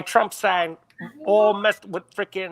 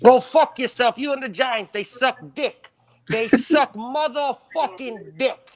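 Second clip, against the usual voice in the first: put-on New York accent; 3 semitones higher than usual. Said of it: "Can you do the New York accent".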